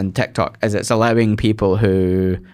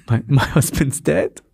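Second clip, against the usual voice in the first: mum's deadpan joke; 5 semitones higher, slower than usual. Retold or imitated. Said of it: "And she was like".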